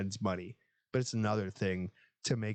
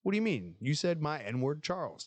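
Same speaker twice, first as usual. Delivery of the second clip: hammed-up movie quote; movie character voice; 7 semitones higher than usual. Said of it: "He's like".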